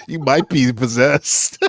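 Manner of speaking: slow talking doll voice; like a pull string doll saying its line; pull string toy. Pretend. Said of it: "you pull the string and it says that".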